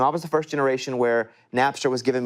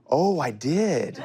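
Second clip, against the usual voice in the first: sheepish laugh; 3 semitones higher, much slower than usual. Real, not acted. Admitting the break-in, laughing.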